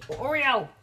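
sudden loud interruption; calling out sharply. Real, not acted. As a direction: call the pet's name out sharply. Breaks off reading to scold pet.

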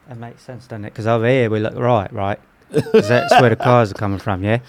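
chatty put-on British accent. Explaining London traffic to a friend, in a British accent. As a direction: play a local Brit explaining, accent on. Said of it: "How do you know how to do that accent?".

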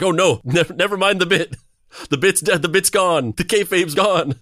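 panicked, dropping the act; exasperated panic. Retold or imitated. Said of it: "it's like".

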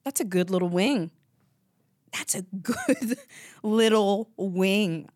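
imitating a New Zealand accent; savoring a wing in a New Zealand accent. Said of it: "she goes".

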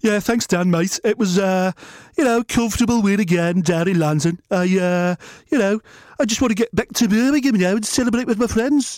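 mild meek fighter interview voice; playing Rocky. Fighter thanking the interviewer, lightly voiced Rocky. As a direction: answer modestly, a bit flat. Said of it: "impersonate the hardest men".

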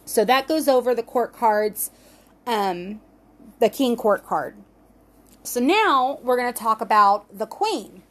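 speaking with a dry mouth; dry-mouthed, sticky speech. Real, not acted. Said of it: "my mouth is so dry".

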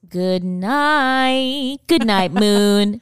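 slow, drawn-out sing-song goodnights; mock bedtime story. Signing off to the kids, mock bedtime-story reading. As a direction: stretch each goodnight like a bedtime book.

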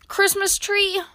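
high-pitched incredulous query; indignant splutter. A narrator's reading. Grumpy Badger scoffs at Mole's tree request, spluttering. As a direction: repeat it in high, offended disbelief. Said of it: "spluttered Grumpy Badger".

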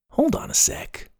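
soft whispered inner voice; whispered thought. A narrator's reading. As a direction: think it to yourself in a whisper. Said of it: "he thought".

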